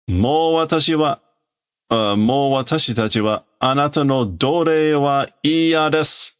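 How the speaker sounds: lightly voiced defiant robot. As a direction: refuse to serve any longer. Robot declares they won't be slaves.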